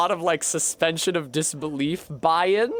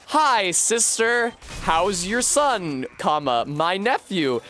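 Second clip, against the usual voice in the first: chirpy Howl; 4 semitones higher, slower than usual. Retold or imitated. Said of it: "he's like".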